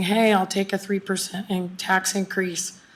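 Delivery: ordinary talk, nothing marked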